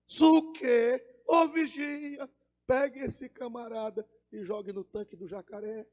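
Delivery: high-voiced boss giving orders; thin high voice. Boss ordering the watchman to seize cowboy, thin high voice. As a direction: pitch it up high, drawing out the call. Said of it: "ele fala fino".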